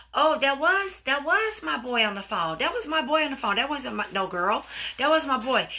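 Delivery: mildly acted insistent denial; arguing down. Caught boyfriend denies a girl called, acted insistent arguing. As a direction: protest it, repeating yourself over objections. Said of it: "He's arguing you down".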